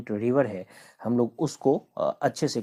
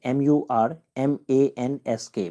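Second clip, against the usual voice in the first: slow letter by letter spelling; 2 semitones higher, slower than usual. Shown as a demonstration. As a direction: spell each letter slowly for the class. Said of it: "मरमांस्क इसको बोलेंगे". (अक्षर-अक्षर धीरे बोलना)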